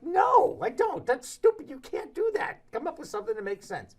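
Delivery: high, incredulous brush-off; mocking dismissal. Retold reply to Howie.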